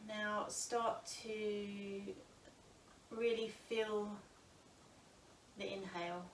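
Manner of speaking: calm, unhurried yoga teacher with long pauses; guided breath meditation. Acted. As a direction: guide them gently into noticing the breath.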